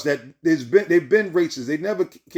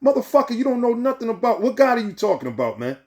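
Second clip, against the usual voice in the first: sharp, higher outburst at the doubters; angry retort; 5 semitones higher than usual. Acted. Preacher lashing out at timid churchgoers, angry and raised. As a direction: bite back hard and high. Rants back at timid believers.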